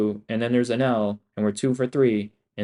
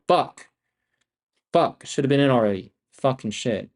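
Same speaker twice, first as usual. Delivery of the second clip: frustrated curse; 2 semitones higher than usual. Real, not acted. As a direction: snap it out at yourself. Annoyed at a missed entry.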